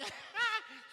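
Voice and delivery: loud, very high imitated laugh; mocking laughter. Cousins laughing at his naive story, mocking. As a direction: burst into a high mock laugh. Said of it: "they all started laughing".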